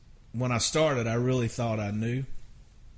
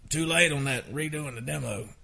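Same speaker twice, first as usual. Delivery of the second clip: Craig Wiseman impression; 4 semitones higher than usual. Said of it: "I'm doing a Craig Wiseman imitation".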